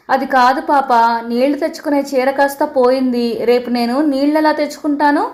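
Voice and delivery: mild mock crying, voice rising; bursting into tears. Aunt tearfully tells the girl her sari is lost, rising wail. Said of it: "అంటూ బోరుమంది".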